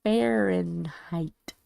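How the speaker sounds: slow, careful Fahrenheit; careful enunciation. Real, not acted. Streamer who finds the word challenging, carefully enunciated. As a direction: stretch out each syllable of Fahrenheit. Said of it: "Words are challenging".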